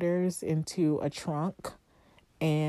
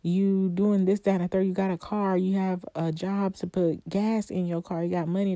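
self-scolding; 3 semitones higher than usual. Acted. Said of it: "I'm just like".

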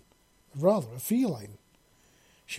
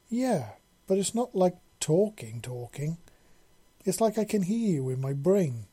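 hatchling voice; 5 semitones higher, 4 dB louder than usual. A narrator's reading. Hatchling voice in story.

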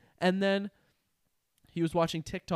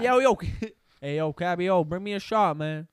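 louder rowdy bro; mock bro call; 2 semitones higher, 8 dB louder than usual. Repeating the bro line louder, mock party call. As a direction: shout it like a hyped party guy.

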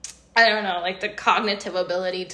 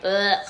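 disgusted groan. Retold or imitated. Retold dismay at heat.

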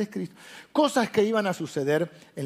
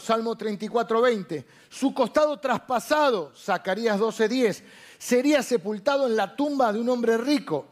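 proclaimed list reading; 3 semitones higher than usual. Acted. Preacher listing fulfilled prophecies to the congregation, proclaimed list reading. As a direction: read out each prophecy like a proclamation.

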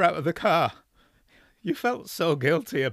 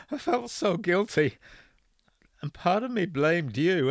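higher, louder voice breaking with sobs; sobbing; 10 semitones higher, 7 dB louder than usual. Acted. Father to son on phone, sobbing apology. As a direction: break down while confessing. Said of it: "started breaking up into sobs".

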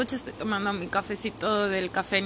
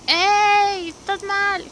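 higher, louder hey you're not well; mock shout; 10 semitones higher, 3 dB louder, much slower than usual. Your body yelling at you, mock shouted warning. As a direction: call out the warning sharply. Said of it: "te lo gritan".

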